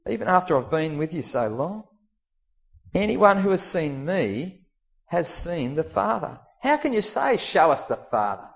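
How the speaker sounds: frustrated. Acted. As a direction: press it home, exasperated. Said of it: "frustration in his voice".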